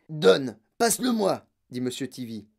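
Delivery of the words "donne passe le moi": loud, impatient order; irritated fatherly command; brusque demand. Acted. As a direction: demand it curtly and forcefully. Father snatches his raging son.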